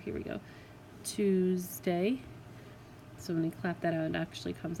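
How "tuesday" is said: "Tuesday" split with a clear break after the S, Tues-day; syllable break. Shown as a demonstration. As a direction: clap "Tuesday" into two beats, breaking after the S. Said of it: "I put my break in the wrong place".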